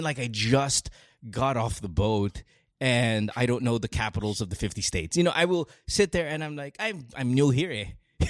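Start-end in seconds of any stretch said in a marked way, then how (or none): 0.2-2.4 Pinoy accent. Shown as a demonstration. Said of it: "I'll do the really Pinoy accent". 6.8-8.2 put-on Pinoy accent. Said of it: "I'll do the really Pinoy accent".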